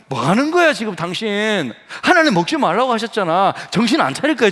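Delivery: acted husband telling off his wife; mock scolding. How Adam should have scolded Eve. (아내를 야단치는 척)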